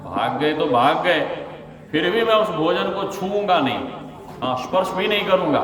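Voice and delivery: lightly acted, digging the heels in; stubborn vow. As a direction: voice lifts in mild defiance. Atheist's stubborn vow, voiced in story.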